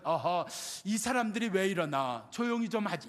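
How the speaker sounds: mild polite tut-tut at noisy people; a gentle elder's reproach, lightly voiced; hint of a dignified gentleman clucking his tongue; genteel mild rebuke. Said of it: "점잖게 얘기해서 꾸짖었다지".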